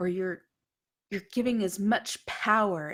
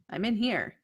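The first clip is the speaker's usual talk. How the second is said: yelling; 3 semitones higher than usual. Acted. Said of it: "you hear her yelling".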